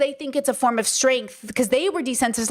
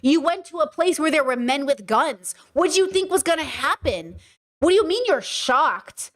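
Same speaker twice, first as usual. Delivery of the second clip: victim-blaming scolding; 3 semitones higher than usual. Acted. Voicing those who blame a shocked woman, scolding. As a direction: act out someone incredulously blaming her. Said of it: "the language that they weaponize against us".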